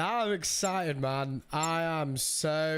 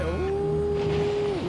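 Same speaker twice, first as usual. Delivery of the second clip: high surprised ooh; 5 dB louder than usual. Real, not acted. Reacts to viewer's holiday.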